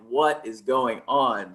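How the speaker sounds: slow, drawn-out disbelief; slowly bewildered coach; baffled reaction. Retold or imitated. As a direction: stretch it out, utterly baffled. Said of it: "and I'm like".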